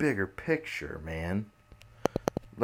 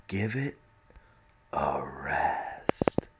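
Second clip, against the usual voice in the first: trailing into whisper; 3 semitones lower, much slower than usual. Real, not acted. Begging Trump to stop, trailing into a whisper. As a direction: give it, then whisper a rest.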